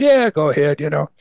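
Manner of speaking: lightly mocking shrug, fast at the end; mild sarcasm. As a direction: wave it off with a hint of scorn. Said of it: "he kind of sarcastically said".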